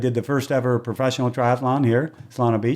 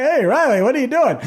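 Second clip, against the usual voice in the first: surprised runner; 12 semitones higher, 4 dB louder than usual. Retold or imitated. Race winner teasing the announcer.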